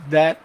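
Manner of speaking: "that" with no release on the T; silent final T. Shown as a demonstration. Teacher correcting students, "that" with the final T silent. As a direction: let "that" stop short of a sounded T. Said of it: "a gente não pronuncia o T final".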